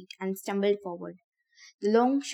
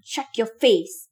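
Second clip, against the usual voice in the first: slow, loud scream, each word hammered; louder scream, dragged out in rage; furious boy screaming down a newcomer; 2 semitones higher, 7 dB louder, slower than usual. A narrator's reading. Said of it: "Ben screamed".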